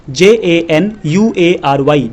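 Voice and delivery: slow letter-by-letter spelling; slow spelled-out letters. Shown as a demonstration. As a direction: spell each letter slowly and evenly. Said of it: "पहला महीना है".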